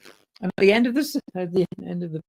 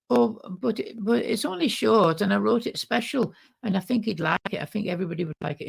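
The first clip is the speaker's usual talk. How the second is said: pleading woman; 9 semitones higher than usual. Retold or imitated.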